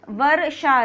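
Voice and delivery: touch the र in वर्षा lightly; वर्षा, र barely sounded. Shown as a demonstration. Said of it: "हल्का सा बोल रहा है".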